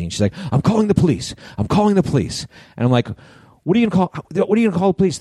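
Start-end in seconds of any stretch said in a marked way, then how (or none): 0.5-2.5 high-pitched imitation of an irate woman; mock angry yelling. Angry driver threatening the man who hit her, mock yell. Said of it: "she's freaking out, right? And she's, like, yelling at me". 3.6-5.2 retold incredulous retort. Retold retort to her police threat.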